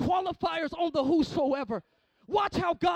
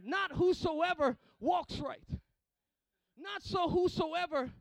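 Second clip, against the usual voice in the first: slow emphasis; 6 dB quieter, slower than usual. Real, not acted. Slow emphatic reading of scripture.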